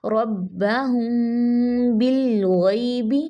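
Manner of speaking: हुम बिल गैबी slow, मीम hidden in the nose, बिल rising; slow recitation; nasal ikhfa. Shown as a demonstration. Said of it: "लाम को मुकम्मल time देना".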